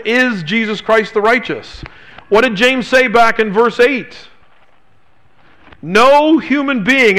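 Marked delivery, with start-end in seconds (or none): 5.8-7.2 "No" drawn out and hit high and hard, slowly; emphatic no. Shown as a demonstration. Preacher to congregation, stressing the Greek's emphatic "No". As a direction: lean hard on "No", the rest slow and weighty. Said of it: "in the Greek it's emphatic".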